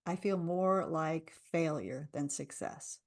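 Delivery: slow, a hint of heaviness; heavy rebuttal. Shown as a demonstration. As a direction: let the doubt sound tired. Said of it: "rebuttal round".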